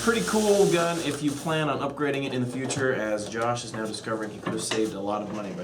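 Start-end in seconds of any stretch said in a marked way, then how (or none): 0.0-2.2 laughing through a put-on Asian accent; louder, hammed-up Asian accent. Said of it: "do your best Asian accent".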